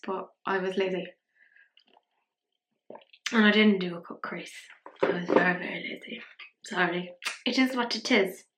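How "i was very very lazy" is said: hushed half-whisper confession; a hushed confession of laziness; odd whispered voice. Real, not acted. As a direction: whisper it like a guilty secret. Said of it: "I don't know why I'm speaking like that".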